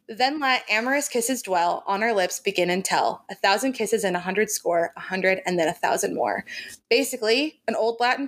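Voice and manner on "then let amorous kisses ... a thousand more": reading a poem. Shown as a demonstration. Quoting the love poem Jamie reads to Claire. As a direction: savour each line of the poem. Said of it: "It says".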